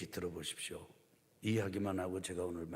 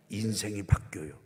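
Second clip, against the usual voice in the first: ordinary delivery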